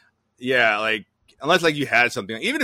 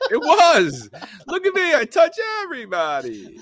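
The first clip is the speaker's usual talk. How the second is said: high squealing laugh while talking; 11 dB louder than usual. Acted. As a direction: laugh through the words, much louder. Laughing mock of touchy governor.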